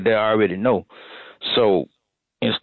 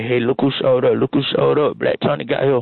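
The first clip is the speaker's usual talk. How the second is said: boss voice; 4 semitones higher than usual. Retold or imitated. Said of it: "he gonna take you around ... and say".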